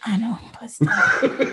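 slow, breathy laugh through words; laughing whisper. Real, not acted. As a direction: admit it through a giggle.

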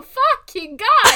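high, loud, slow Nando growl. Retold or imitated. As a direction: ham up a feral vampire snarl. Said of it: "I can only do Nando".

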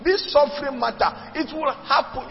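a playful hint of the apostle warning them; voicing Paul. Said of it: "Paul told the Thessalonian church".

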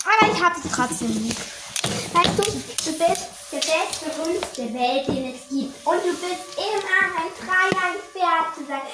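soft, slow and loving; tender. Real, not acted. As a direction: speak lovingly to your dog. Tender words to the dog.

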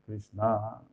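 "Krishna" with a stretched last vowel; slow krish-NAA for "Krishna"; long final a. Shown as a demonstration. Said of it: "eso ya es Durga".

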